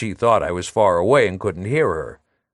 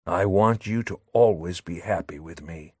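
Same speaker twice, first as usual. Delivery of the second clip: soft, gentle promise, a bit quieter; very gently; 4 semitones lower, 4 dB quieter than usual. Acted. Léon promising Madelon happiness, gently and softly. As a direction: say it tenderly and low. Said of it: "he said very gently".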